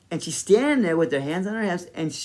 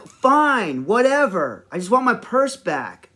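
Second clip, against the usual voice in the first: fed up; 6 semitones higher, 3 dB louder than usual. Retold or imitated. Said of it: "starting to get tired of this game".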